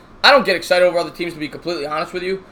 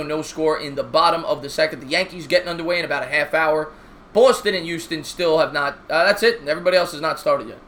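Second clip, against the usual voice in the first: play-by-play announcer. Acted. Out-of-town scoreboard read.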